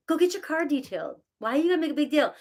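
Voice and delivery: a mild mock nag to herself; exasperated self-talk. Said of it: "It's like".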